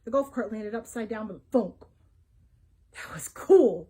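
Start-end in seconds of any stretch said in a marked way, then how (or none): 2.9-3.9 loud, thrilled gush. A narrator's reading. Boy awed by the exploding Frisbee, gushing loudly. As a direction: burst out with delight. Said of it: "Colt gushed".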